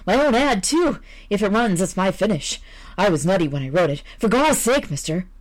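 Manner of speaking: a frightened man begging, tripping on his words; terrified visitor. Acted. Visitor pleading with editor.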